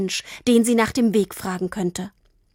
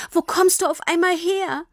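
still sobbing; 8 semitones higher than usual. Acted. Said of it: "fragte Tini immer noch schluchzend".

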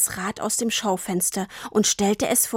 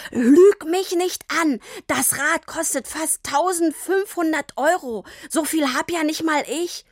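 a father scolding hard; angry; 8 semitones higher than usual. A narrator's reading. Papa scolds Tini for lying, angry.

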